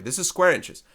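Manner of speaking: "square" punched out high and loud; emphatic stress. Shown as a demonstration. Teacher to students stressing the units, emphatic. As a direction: hit "square inches" hard so it sticks. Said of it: "I mentioned that loudly enough".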